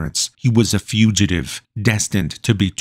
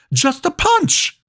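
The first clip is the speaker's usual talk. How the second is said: much higher, slowed, despairing repeat; slower pleading scream; slower than usual. Acted. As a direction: drag it out, begging. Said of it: "Lucas screamed".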